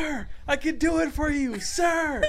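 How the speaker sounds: very high, shrill-sounding mocking call after someone leaving; mock clerk calling out. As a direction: squeak out a desperate "sir" after a customer. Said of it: "She's just like".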